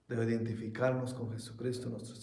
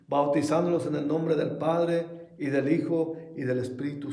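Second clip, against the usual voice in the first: scripture reading; 4 dB louder than usual. Acted. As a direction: proclaim the verse to the congregation. Reads Bible verse aloud.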